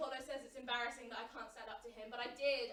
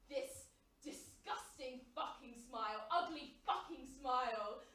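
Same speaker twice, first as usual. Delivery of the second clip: slow and contemptuous; slow disgusted description of his smile; 2 semitones lower, slower than usual. Acted. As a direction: spit out the disgust slowly. Sneering at the boss's smile.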